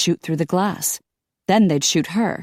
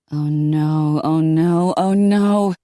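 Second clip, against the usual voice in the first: panicked mumble building louder; rising panic; 3 dB louder, much slower than usual. A narrator's reading. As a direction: let the panic climb. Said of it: "mumbling louder and louder".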